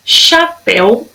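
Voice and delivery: "chapéu" said slowly, weight on "péu"; slow, careful "chapéu" leaning on the last syllable; stressed last syllable. Shown as a demonstration. Teacher presenting a word to pupils, measured "chapéu" stressing "péu". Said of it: "na última sílaba".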